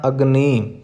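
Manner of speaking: ਅਗਨੀ said with a dental n, not retroflex. Shown as a demonstration. Teacher models the right word for students, careful pronunciation. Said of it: "ਅਗਨੀ ਨੰਨਾ ਲਾਉਣਾ ਹੈ".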